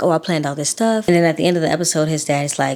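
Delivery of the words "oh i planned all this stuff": usual speaking voice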